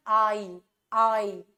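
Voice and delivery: आई said as one sound sliding from 'ah' into 'ee'; gliding diphthong. Shown as a demonstration. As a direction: demonstrate आई slowly as a single smooth glide, twice. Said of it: "इन दोनों के बीच में कैसा sound जा रहा है". (आई में 'आ' से 'ई' तक खींचा हुआ स्लाइड)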